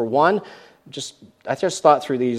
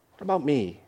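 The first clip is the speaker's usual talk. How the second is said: quiet sulk; 6 dB quieter than usual. Retold or imitated. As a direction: let the complaint sink to a mumble. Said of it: "that's kinda how we feel".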